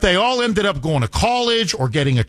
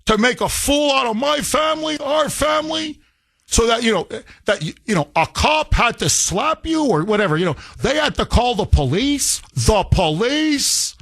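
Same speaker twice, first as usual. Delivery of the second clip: higher, shouting father's rant; imitating an irate father; 6 semitones higher than usual. Father berating his son over police shame, higher mock shout. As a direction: rant like an outraged immigrant dad. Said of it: "My father would be like".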